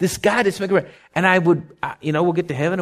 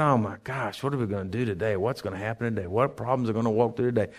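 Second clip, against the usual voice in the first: mock worry; 5 semitones lower, 8 dB quieter than usual. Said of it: "waking up every morning and saying".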